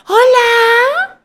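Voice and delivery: long, very high mock shout; imitated yell. Visitor barging in and yelling at the receptionist, imitated yell. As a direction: mimic a rude, drawn-out holler at full pitch. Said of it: "entra donde estoy yo y me grita".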